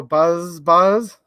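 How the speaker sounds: drawn-out buzzing word; bee buzzing. Acted. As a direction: stretch the zz like a bee. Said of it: "He can sound like a bee".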